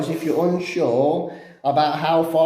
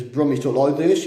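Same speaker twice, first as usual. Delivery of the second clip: lightly put-on Brummie accent. Shown as a demonstration. Showing how Brummies talk, Brummie accent. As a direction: slip into a mock Brummie. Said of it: "I don't sound like Brummie".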